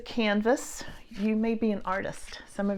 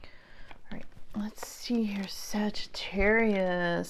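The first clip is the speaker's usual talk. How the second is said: whispered aside; slower than usual. Real, not acted. Whispering while pulling cards.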